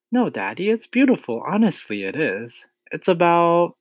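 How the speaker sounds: put-on high child voice, earnestly persuading; earnest daughter, pitch leaping up; pleading little girl. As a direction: plead with daddy in a high young voice. Matilda pleads with angry father.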